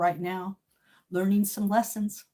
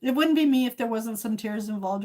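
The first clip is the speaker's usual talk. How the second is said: laughing. Real, not acted. Laughing through tears.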